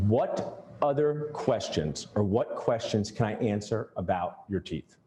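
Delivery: slow and deliberate, each word placed; the patient hears an unhurried offer of help; slow, deliberate magic words. Shown as a demonstration. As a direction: lay the question out slowly for the patient. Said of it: "Say this every time".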